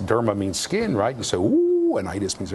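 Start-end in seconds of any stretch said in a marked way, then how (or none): 1.4-2.0 high delighted ooh; impressed ooh. Pretend. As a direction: coo in mock awe. Mock awe at jargon.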